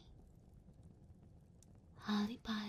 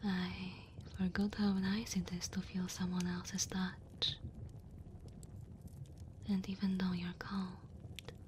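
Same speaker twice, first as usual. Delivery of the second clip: tender dragon woman. Acted. Dragon woman warming a human by her fire, tender. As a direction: comfort the cold guest, gentle and unhurried.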